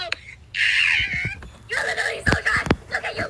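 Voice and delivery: angry gamer rant. Real, not acted. Raging at an opponent in game.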